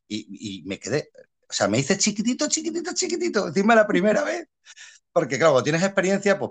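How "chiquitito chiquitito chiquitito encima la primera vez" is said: tiny voice. Retold or imitated. Feeling small as beginner.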